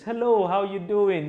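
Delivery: happy greeting. Shown as a demonstration. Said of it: "You go in with a nice happy face".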